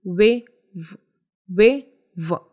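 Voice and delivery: "वे" with rounded lips, then "व" with vibration; rounded-lip "वे" against buzzing "व"; contrasting व sounds. Shown as a demonstration. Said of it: "first में vibration नहीं आएगा". (होंठ गोल करके "वे", फिर कंपन वाला "व")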